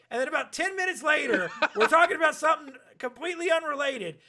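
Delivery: ordinary talk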